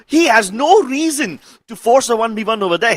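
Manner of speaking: loud, high, fired-up call; excited commentary. Real, not acted. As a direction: build the hype on the play. Caster hyping a risky play.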